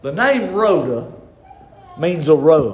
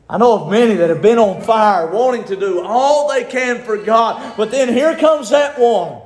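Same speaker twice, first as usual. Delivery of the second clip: full-force preaching; 4 semitones higher, 4 dB louder than usual. Acted.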